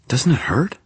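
shocked, whispered question; stunned whisper. A narrator's reading. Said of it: "Susan stammered, still stunned".

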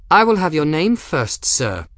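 high, sharp haughty demand; indignant snap, dropping on the last word; snapped. A narrator's reading. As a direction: snap it imperiously. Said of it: "Gwen snapped".

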